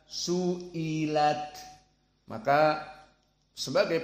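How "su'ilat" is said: "su'ilat" drawn out syllable by syllable; Arab reading. Shown as a demonstration. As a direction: sound out "su'ilat" slowly with long i. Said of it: "Sebagian Arab membaca". ("su'ilat" dieja panjang menurut bacaan Arab)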